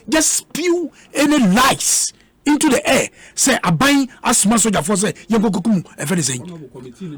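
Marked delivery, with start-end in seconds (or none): 3.6-7.2 mocking quote of a rival's statement. Radio panelist mocking a rival's press statement, scornful. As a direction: sneer through his statement, then let it die away. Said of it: "This is what you wrote in your statement".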